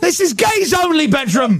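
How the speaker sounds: high, laughing mock outrage; hammed-up indignant protest; mock indignation. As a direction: lay down the law in pretend fury. Acted jealous bedroom confrontation.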